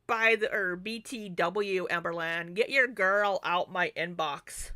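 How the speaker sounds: loud, drawn-out sassy demand; sassy call-out. Real, not acted. Vlogger telling Amberland off about her inbox, sassy and loud. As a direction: call her out loudly, stretching the words.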